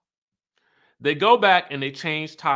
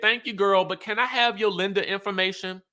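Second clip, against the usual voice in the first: mock sweet ask; 7 semitones higher than usual. Robin asking for lender info.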